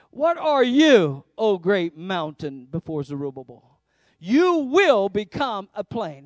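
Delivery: slow, loud, each phrase hammered; emphatic proclamation. Real, not acted. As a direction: command the mountain to fall. Quoting rebuke to the mountain.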